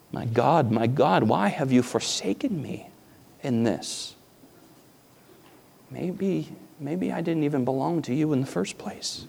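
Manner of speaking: soft, despairing questions; quiet hopeless lament; despairing inner voice. Retold or imitated. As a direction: let the heart sink as you ask. The heart asking in despair.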